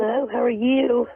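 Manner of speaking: congested from a cold; talking through a blocked nose; stuffy nose. Real, not acted. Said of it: "I'm sorry for my cold".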